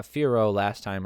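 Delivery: "Firo" as FEER-oh; mispronounced name. Shown as a demonstration. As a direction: say "Firo" slowly, ending in an open OH. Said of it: "They pronounce it".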